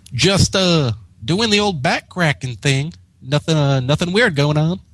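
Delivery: high, hesitant fibbing voice; nervous lie. Acted. Applejack caught out, a light nervous fib. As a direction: cover up badly, stumbling. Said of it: "the worst liar in all of Equestria".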